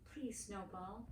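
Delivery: begging. A narrator's reading. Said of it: "Miriam begged".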